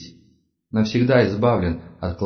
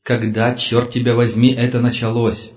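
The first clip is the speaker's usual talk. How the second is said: angry demand; 2 semitones higher, 4 dB louder than usual. Acted. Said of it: "принялся трясти его за плечи".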